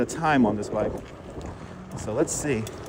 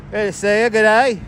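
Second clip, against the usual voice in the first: higher-pitched attempt at an Australian accent that lands British; British-sounding Australian greeting; 4 semitones higher than usual. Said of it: "that is a British accent".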